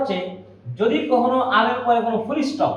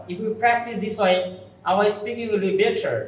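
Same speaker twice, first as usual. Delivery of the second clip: slow advice; 4 dB quieter, much slower than usual. Real, not acted. Teacher advises students in English.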